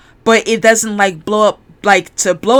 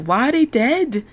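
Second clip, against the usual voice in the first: higher, rough attempt at a British accent; 4 semitones higher than usual. Asking the ship's computer about the crew, attempted British accent. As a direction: try Lister's British accent, voice lifting. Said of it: "I'm trying to do Lister's accent".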